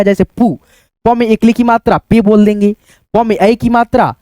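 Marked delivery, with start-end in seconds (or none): 0.3-0.6 पू with a stretched ऊ; long पू, vowel held; drawn-out long uu. Shown as a demonstration. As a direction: hold the ऊ in पू longer. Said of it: "खींच करके रहेगा".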